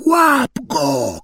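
high, eerie command; shouted order. A narrator's reading. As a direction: bark at Quirrell. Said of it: "krzyknął Voldemort". (wysoki, upiorny rozkaz)

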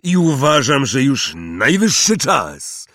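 slow, loud hearty giant; proud of the boy. Acted. Hagrid proud.

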